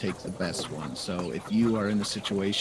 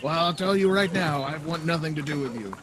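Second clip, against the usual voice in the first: scornful mayor; 9 semitones higher, 3 dB louder than usual. Acted. Mayor rebukes the monk.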